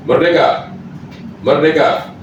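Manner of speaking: rising rallying cry, called out; rally the crowd with each call; rally speech. Real, not acted. Closing patriotic rally chant.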